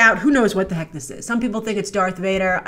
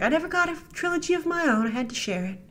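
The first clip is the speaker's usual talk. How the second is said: softer, fading to near silence; mock teary lament; 6 semitones higher, 6 dB quieter, faster than usual. Teary Rey lamenting sharing her trilogy. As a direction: whimper it like a self-pitying heroine. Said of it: "She's like".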